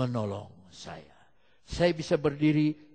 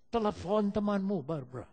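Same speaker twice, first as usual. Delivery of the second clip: repeated order, firmer and more raised; Holy Spirit's insistent command; 6 semitones higher than usual. Retold or imitated. The Holy Spirit answers a doubt, insistent. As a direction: press the instruction home. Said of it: "Roh Kudus bilang sama dia".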